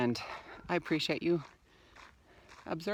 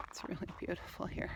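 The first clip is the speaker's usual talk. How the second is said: whispering; 5 semitones higher, 11 dB quieter than usual. Real, not acted. Awed by the view.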